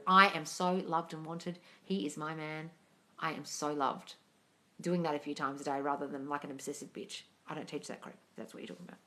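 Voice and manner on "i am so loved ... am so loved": slow, steady, calm declaration; the right way: calm and sure; calm decree. Shown as a demonstration. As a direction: state it slowly as simple fact. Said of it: "decreeing a thing like it's true".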